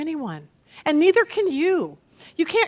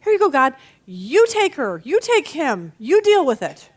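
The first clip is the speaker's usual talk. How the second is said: louder, fed-up release of it all; letting go; 2 semitones higher, 3 dB louder than usual. Retold or imitated. Believer handing a stubborn person over to God, fed up. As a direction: throw up your hands and hand it over. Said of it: "When you get to the point of saying".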